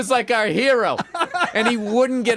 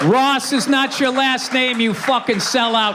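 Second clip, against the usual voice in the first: mock outrage; 5 semitones higher, slower than usual. Real, not acted. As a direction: bellow it like a playful accusation. Mock accusing friend over name.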